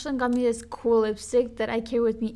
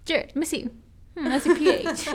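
playful inspecting voice, higher and louder; mock inspector, higher; 5 semitones higher, 4 dB louder than usual. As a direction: repeat the check with a higher, louder, teasing voice. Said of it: "I was like".

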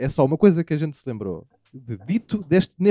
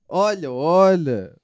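suggestive tone; much slower than usual. Retold or imitated. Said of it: "parece que sabes isto".

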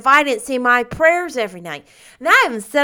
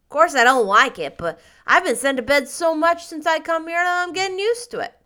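put-on louder, scornful boy; 3 semitones higher, 7 dB louder than usual. A narrator's reading. Davy scoffs at Anne about supper, scornful and louder. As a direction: dismiss it with a sneer, louder. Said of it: "he said scornfully".

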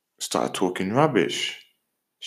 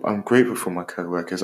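quick affirmation; 5 semitones lower, faster than usual. Shown as a demonstration. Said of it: "I'm grateful I'm working here".

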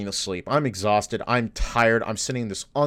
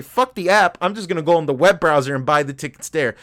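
fed-up outburst; 3 semitones higher than usual. Retold or imitated. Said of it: "I close the app and say".

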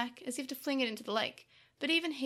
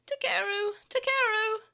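high, loud calling, rising on the repeat; distressed cry; 9 semitones higher, 6 dB louder than usual. A narrator's reading. Tokomon calls to his wailing friend, distressed. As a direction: call out urgently to a friend. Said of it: "cried up to him in distress".

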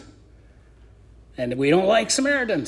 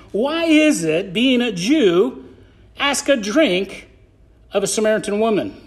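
sarcastic; 3 semitones higher than usual. Acted. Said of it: "hear the sarcasm in it".

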